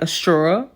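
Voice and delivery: STRAW as "straw-uh", rising; New York straw. Retold or imitated. Repeating it for a puzzled friend, straw said "straw-uh". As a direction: repeat straw with a rounded aw and trailing uh. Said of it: "like, you from New York".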